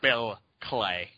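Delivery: low, drawn-out fake American accent; mock a Brit's put-on American accent; Rickman's fake American accent. Co-host impersonates British actor playing a German, fake American accent. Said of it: "a German guy doing an American guy".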